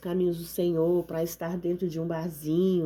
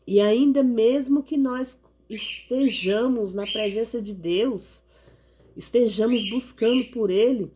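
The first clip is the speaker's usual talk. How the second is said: rising sermon fervor. Acted. Preaching builds, then slows.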